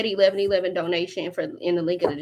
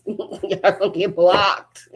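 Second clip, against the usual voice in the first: laughing; 4 dB louder, slower than usual. Real, not acted.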